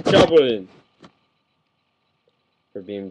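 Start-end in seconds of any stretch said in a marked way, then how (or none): 0.0-0.7 imitated Japanese battle cry; Japanese show impersonation. Shown as a demonstration. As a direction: call it out with a hammed-up Japanese accent. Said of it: "That even sounds relatively like the show".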